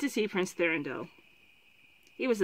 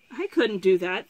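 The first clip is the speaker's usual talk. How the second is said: louder, mildly shocked protest; 8 dB louder than usual. A narrator's reading. Prince refusing to defy his father, shocked. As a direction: object as if taken aback.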